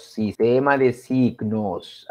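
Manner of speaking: slow repetition. Shown as a demonstration. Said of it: "La lengua".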